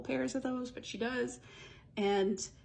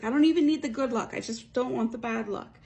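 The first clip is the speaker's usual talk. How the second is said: frantic outburst; 4 semitones higher, 6 dB louder than usual. Retold or imitated. Heroine frets over bad luck.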